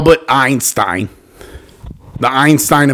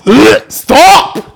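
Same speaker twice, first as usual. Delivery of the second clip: high, laughing cry of stop; laughing protest; 13 semitones higher, 6 dB louder than usual. Real, not acted. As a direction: yelp it through laughter. Friend making him gag.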